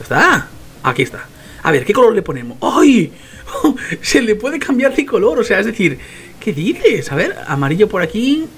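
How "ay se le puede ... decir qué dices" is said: high laughing yelp of discovery; delighted surprise. Real, not acted. Player finding out colours can be changed, delighted. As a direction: squeal with a laugh, thrilled by the find.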